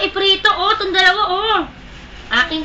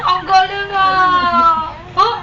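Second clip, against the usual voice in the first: higher, delighted cry of praise; excited praise; 4 semitones higher, 3 dB louder than usual. Real, not acted. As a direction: cheer the pet on.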